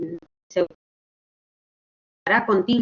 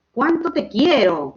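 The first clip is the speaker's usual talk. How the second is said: higher, drawn-out exclamation; slow, heartfelt example exclamation, pitched up; 5 semitones higher than usual. Shown as a demonstration. Teacher giving an example for accent marks, exclaiming. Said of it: "Una exclamación".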